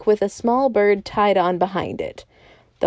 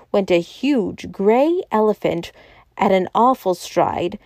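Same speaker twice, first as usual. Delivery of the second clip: plain reading voice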